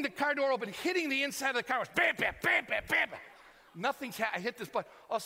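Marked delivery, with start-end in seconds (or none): 1.9-3.2 punchy "bam" bursts; imitated banging. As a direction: bang it out with your voice. Imitates hitting inside of car wash.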